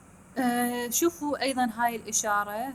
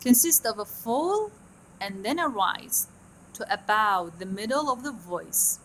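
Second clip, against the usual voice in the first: slow dictation; much slower than usual. Shown as a demonstration. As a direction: read the definition slowly.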